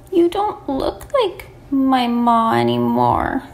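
slow, lightly plaintive lamb; understated cry. Acted. Lamb upset at seeing Ma in a blanket, slow mild cry. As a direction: draw it out with a touch of hurt. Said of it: "he cried".

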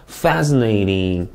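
slow "Fascinating" with its first syllable stressed; careful word stress. Shown as a demonstration. Teacher models "Fascinating" for students, careful word stress. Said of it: "강세를 주의해서 한번 읽어볼게요".

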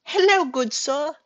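high, slow put-on voice; high-pitched, drawn-out goofy greeting; attempted nerd voice. Shown as a demonstration. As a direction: stretch it out in a high nerdy voice. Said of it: "that's not different enough".

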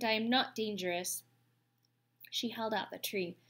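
lightly voiced calm robot, measured and careful; a gentle robot politely greeting the beavers. Roz the robot speaking.

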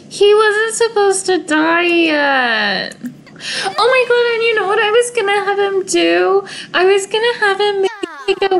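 real laughing sob over a lost plan; laughing through tears. Real, not acted. Gamer laughs and cries over her sim dying too soon.

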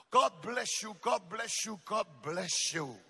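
a sugary mock blessing, patting shoulders; lightly mock the soft comforting preacher; mocking coddling preacher. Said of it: "pat your shoulders and say".

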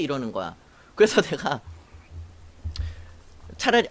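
ordinary delivery

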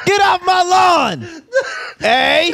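high, slow mock Canadian shout; hammed-up Canadian with a questioning tag; badly hidden Canadian. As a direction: yell like a cartoonish cranky Canadian. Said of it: "A Canadian who is not good at hiding".

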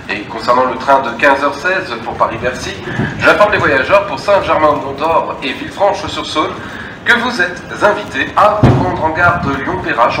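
station loudspeaker announcement; echoing public address voice; over a PA system. Real, not acted.

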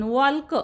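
वॉल्क with the L sounded; wrong pronunciation. Shown as a demonstration. Teacher shows the wrong way, वॉल्क with the L said. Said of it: "वॉलक असं म्हणत नाही आपण".

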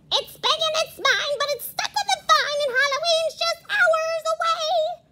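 high, fast witch voice. Acted. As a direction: cackle it out like a witch. Witch voice in story.

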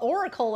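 "Oracle" as "OR-a-kul"; hillbilly pronunciation. Shown as a demonstration. Admitting her own country habit, "Oracle" with a "kul" ending. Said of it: "I'm a hillbilly hick over here".

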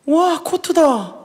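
high, slow, awestruck fan voice; starstruck gushing. Acted. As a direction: gush like a dazzled fan. Fans gush over Kot.

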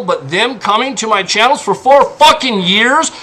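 rising frustration; heated outrage; building anger. Real, not acted. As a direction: push harder toward the end. Heated rant about harassers.

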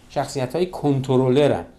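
normal talking voice

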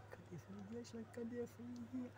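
softly playful call to a pet; coaxing a pet. Real, not acted. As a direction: quietly tease the dog into searching. Coaxing pet to find ant.

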